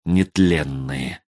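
low, slow, stunned whisper of dread; shaken strange voice. A narrator's reading. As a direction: say it as if the blood ran cold. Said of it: "не своим голосом объявил".

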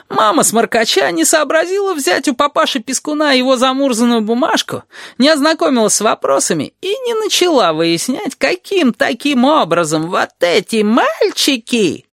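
high-pitched agitated rant, slowing at the end; increasingly worked up. A narrator's reading. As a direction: build exasperation, then draw out the last words mockingly. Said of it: "распаляясь всё сильнее". (распаляясь всё сильнее)

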